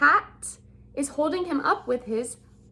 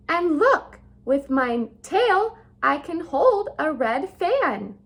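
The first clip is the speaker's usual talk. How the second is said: showing-off cat; 2 semitones higher than usual. Acted. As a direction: crow about every trick. Cat boasting again.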